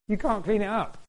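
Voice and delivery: laughing through "You can't clean it up"; amused laugh on the line. Real, not acted. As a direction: chuckle it out. Laughing at scrubbing mud.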